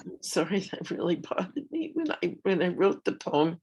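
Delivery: choked up, fighting back tears; crying. Real, not acted. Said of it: "I'm crying now".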